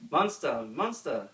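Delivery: loud cheering call; gleeful cheer chasing the monster. A narrator's reading. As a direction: cheer after him. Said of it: "they cheered after him".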